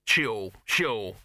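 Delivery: brisk brush-off; dismissive. A narrator's reading. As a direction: brush the objection aside. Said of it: "said Dibbler dismissively".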